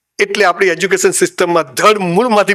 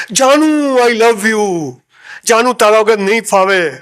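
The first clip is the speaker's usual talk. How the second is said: madman wailing for his love; slower than usual. Retold or imitated. Caged madman crying out to his lost love, in a hammed-up lovesick wail. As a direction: cry out for your darling like a madman. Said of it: "તેમાં ગાડો રાડો પાડે".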